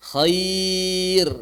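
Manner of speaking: "khair" long drawn, ending on a light r; thin r. Shown as a demonstration. Teacher shows ra after ya sukun, thin r. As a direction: stretch "khair" and close on a thin r. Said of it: "maka dibaca tipis".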